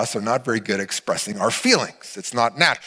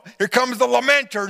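groaning friends; 10 semitones higher, 4 dB louder than usual. Pretend.

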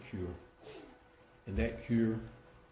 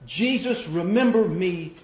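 other thief; 2 semitones higher, 5 dB louder than usual. Acted. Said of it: "the other thief responds and he says".

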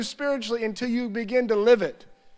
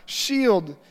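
worship prayer. Shown as a demonstration. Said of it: "I would just begin to worship".

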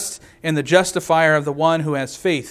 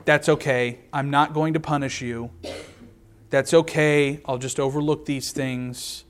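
softer, gently letting it slide; soft lenient voice; 3 semitones lower, 6 dB quieter than usual. Retold or imitated. Preacher imitates God softly excusing the people's sins. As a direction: voice God as if quietly shrugging off sin. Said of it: "how can he say".

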